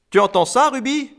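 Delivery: high, loud, overjoyed shout; bursting with mocking glee, pitched high; gleeful stamping excitement. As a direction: crow it to your partner. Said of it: "trépigna Ungar".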